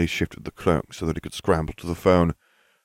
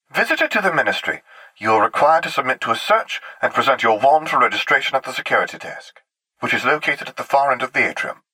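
lightly voiced, higher-pitched announcer; tinny woman's voice; 7 semitones higher, 3 dB louder than usual. A narrator's reading. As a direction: recite like an official recording. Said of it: "The voice continued".

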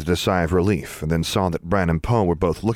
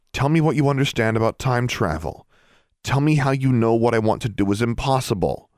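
higher-pitched, pressing demand; insistent demand; 5 semitones higher than usual. Acted. Alexandra challenges the elves about time travel, insistent. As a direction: insist on an explanation. Argumentative girl demands an answer.

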